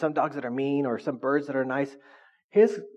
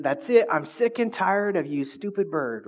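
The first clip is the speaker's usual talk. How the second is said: raised, angry outburst at the bird; fed up yell; 5 semitones higher, slower than usual. Retold or imitated. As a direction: snap at the bird, fed up and slow. Owner fed up, yells at bird.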